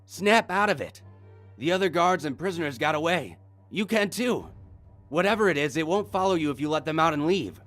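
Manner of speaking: high, loud shouting; shouted. Acted. Will shouting at the frozen guard. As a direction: shout him out of his freeze. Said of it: "Will shouted at him".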